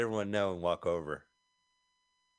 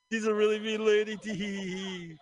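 mean lady voice; 10 semitones higher than usual. Pretend. Mocking the film's band.

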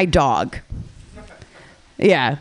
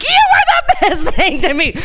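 mock passionate farewell; 11 semitones higher, 3 dB louder than usual. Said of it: "I just want it to be so passionate".

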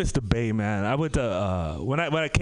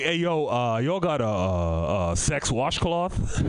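sheepish low voice; 9 semitones lower, slower than usual. Pretend. Imagined asking at store, drawn out.

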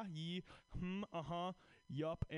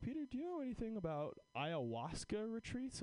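mom quote; 8 semitones higher than usual. Retold or imitated. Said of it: "she was like".

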